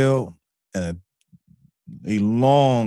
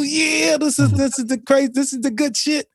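manic inner voice. Retold or imitated. Voice of the inner answer.

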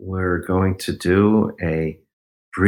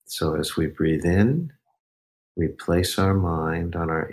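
guided meditation. Acted. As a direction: lead the breath gently, unhurried. Leads a breathing meditation.

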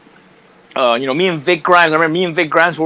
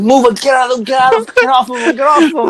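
retold yell; 6 semitones higher, faster than usual. Robert breaking up fight, retold.

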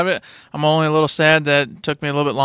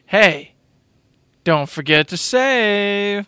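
sign-off catchphrase; 5 semitones higher, much slower than usual. Retold or imitated. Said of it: "ending every night with".

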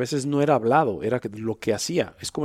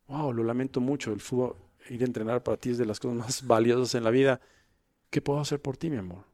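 tender father; 3 dB quieter than usual. Shown as a demonstration. Father comforts son, demo.

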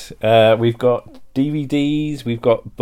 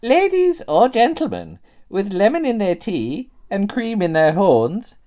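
high, swooping ladylike announcement; put-on high lady voice; genteel old-dear character; 10 semitones higher, slower than usual. In-character cosplay opening sketch.

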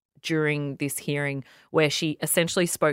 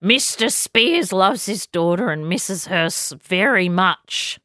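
put-on slow Australian accent, pitched up; mock Australian accent; 3 semitones higher, slower than usual. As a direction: drag it out like a pompous Australian lawyer. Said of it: "She has an Australian accent".

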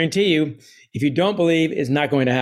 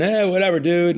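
mock aloofness; 3 semitones higher than usual. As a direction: put on a too-cool, uncaring shrug. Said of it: "be distant and aloof".

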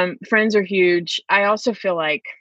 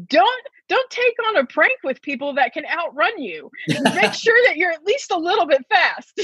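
giggling through the words, pitched higher; laughing advice; 11 semitones higher than usual. Real, not acted. Friend jokes about outrunning fellow pranksters, laughing. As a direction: laugh while you give the advice.

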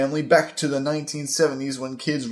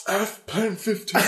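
laughing; 8 semitones higher than usual. Real, not acted. Laughing at own joke.

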